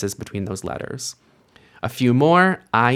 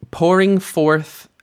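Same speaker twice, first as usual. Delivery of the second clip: slow emphasis; 7 semitones higher, 4 dB louder, slower than usual. Shown as a demonstration. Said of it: "read it slowly".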